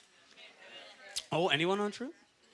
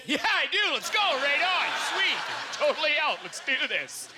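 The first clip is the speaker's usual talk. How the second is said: mock eager acceptance; 7 semitones higher than usual. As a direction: jump at the offer, mock excited. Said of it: "you go".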